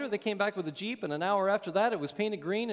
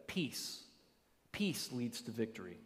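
whispered emphasis; 6 semitones lower, 10 dB quieter, slower than usual. Acted. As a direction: whisper it, softer and lower. Whispered punchline about peace.

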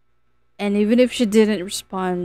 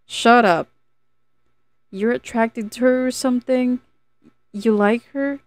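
snapping back; 5 semitones higher, 3 dB louder than usual. A narrator's reading.

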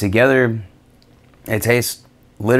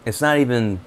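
speaking around a lollipop; pausing to taste candy; talking with lollipop at lips. Real, not acted. Seen 2: White lollipop held against lips while he talks about flavor.

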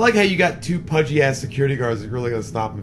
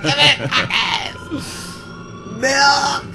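retold scream; 12 semitones higher, slower than usual. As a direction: shout it high like a child. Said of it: "He's screaming at her".

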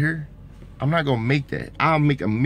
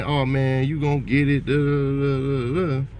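upbeat encouragement; 3 semitones higher than usual. Retold or imitated. Imitating the friend he wished had encouraged him, upbeat hype. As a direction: cheer a buddy on about buying the car. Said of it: "instead of saying".

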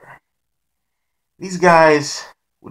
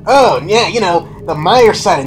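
higher, louder goofy chatter, fast; Mister Ghostface's stupid voice; 3 semitones higher, 4 dB louder, faster than usual. Retold or imitated. Masked friend explaining the Michael sightings, goofy raised voice. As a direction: ramble on about the sightings like a know-it-all. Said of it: "in his stupid voice".

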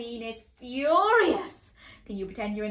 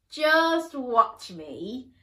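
beaming princess; 6 dB louder, much slower than usual. Acted. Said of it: "beamed the princess".

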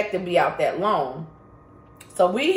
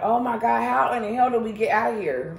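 higher-pitched retold panic; freaking out; 4 semitones higher than usual. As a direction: imitate someone freaking out, pitched up. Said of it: "Charles started freaking out".

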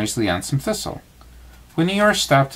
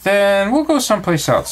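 Tigger voice; 8 semitones higher than usual. A narrator's reading. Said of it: "said Tigger".

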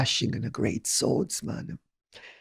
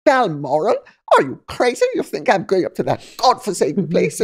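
scornful wife; 3 semitones higher, faster than usual. Retold or imitated. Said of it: "as soon as the wedding ring is on".

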